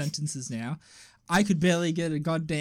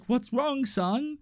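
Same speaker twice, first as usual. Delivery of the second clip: higher-pitched imitation of a mother; lightly put-on mum voice, pitched up; mum's voice; 7 semitones higher, much slower than usual. Mum asking son what's wrong, imitated in higher voice.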